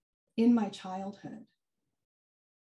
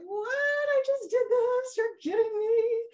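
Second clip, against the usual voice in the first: much higher, squealing amazement; astonished; 13 semitones higher than usual. Retold or imitated. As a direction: relive the jaw-drop moment. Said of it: "my eyes were like".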